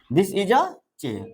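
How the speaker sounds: slow model sentence. Shown as a demonstration. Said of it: "teacher models answer slowly".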